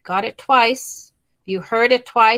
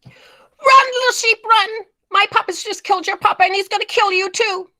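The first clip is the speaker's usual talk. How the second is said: urgent; 12 semitones higher than usual. Shown as a demonstration. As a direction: cry out a frantic warning. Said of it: "I'm showing some type of urgency".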